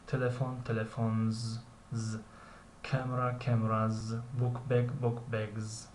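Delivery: "تلفن", then "تلفنز" with a voiced z added; singular, then z plural. Shown as a demonstration. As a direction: contrast each pair, ending "بوک بگز" in a buzzing z. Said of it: "اسی که در پایان کلمه ها تلفظ می شود".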